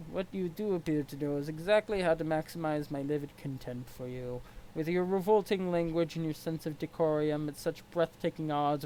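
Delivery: stiff, formal troll sneering at his rival; a lightly voiced haughty troll. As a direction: look down your nose at him. Equius troll voice.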